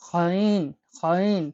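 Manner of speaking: খাইন gargled from the back of the throat; throaty ghain. Shown as a demonstration. Teacher demonstrating the Arabic throat letter, gargled. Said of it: "গলা থেকে বের করতে হবে".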